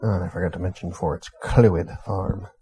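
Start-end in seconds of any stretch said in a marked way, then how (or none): 1.4-2.5 "Clwyd" said slowly as "CLOO-id"; Welsh name demo. Shown as a demonstration. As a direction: draw out "Clwyd" with an oo for the w. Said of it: "There's no vowels in there".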